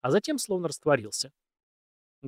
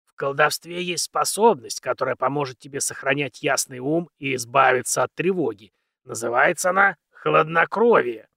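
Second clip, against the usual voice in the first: put-on very old man; 4 dB louder than usual. Old mentor explains.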